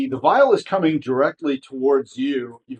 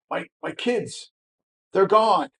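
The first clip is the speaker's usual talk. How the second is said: worried mother; 7 semitones higher than usual. Acted. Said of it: "she looks very concerned".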